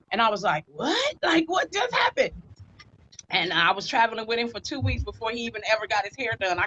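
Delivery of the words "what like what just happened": retold astonishment. Retold astonishment at being hired.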